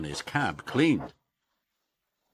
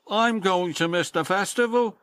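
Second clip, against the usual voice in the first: sad sigh; 10 semitones higher, 5 dB louder than usual. Acted. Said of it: "Percy sighed sadly".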